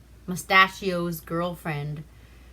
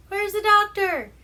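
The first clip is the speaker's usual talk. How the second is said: put-on old aunt asking; 13 semitones higher, 6 dB louder than usual. Aunt Gussie coming down stairs.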